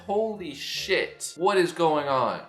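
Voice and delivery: starstruck exclamation. Retold or imitated. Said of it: "I said".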